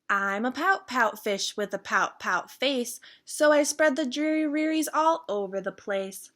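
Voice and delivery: sing-song the gloomy fish's catchphrase; mildly mopey fish chanting his refrain; pout pout fish refrain. Acted.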